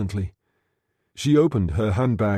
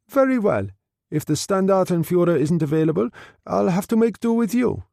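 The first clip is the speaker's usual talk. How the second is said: higher, clipped German officer; German captain Muller settling for Greiser, higher; voiced Muller; 7 semitones higher than usual. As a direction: give the officer cool command.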